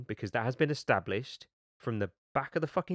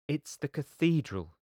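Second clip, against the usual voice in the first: higher, slow proclamation; declaring; 6 semitones higher, 3 dB louder than usual. A narrator's reading. Kirsty revealing the cause to her guests, declaring. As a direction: announce it slowly for the whole room. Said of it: "declared Kirsty".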